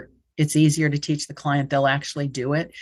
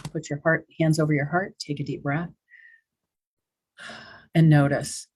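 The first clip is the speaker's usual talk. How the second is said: soothing guidance. Shown as a demonstration. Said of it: "I've done this just kind of conversationally".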